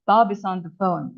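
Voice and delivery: "Bob is on the phone" linked in one smooth run; connected sound group. Shown as a demonstration. English teacher recapping how to connect words, smoothly linked. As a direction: join BOB-IS-ON-THE-PHONE without gaps. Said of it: "just like this".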